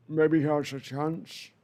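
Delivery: slow, slurred words. Real, not acted. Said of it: "I sound like a drunk".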